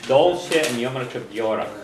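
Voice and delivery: Dolce an yomrika biorach, stress on Dolce; teacher models the sentence. Shown as a demonstration. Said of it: "So you wanna say".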